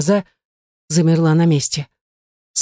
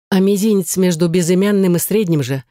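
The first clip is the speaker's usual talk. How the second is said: usual speaking voice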